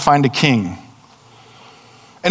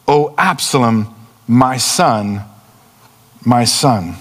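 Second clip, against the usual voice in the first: scripture reading; slower than usual. Acted. Preacher reading David's grief to the church, solemn and slow. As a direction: read it as a father's lament.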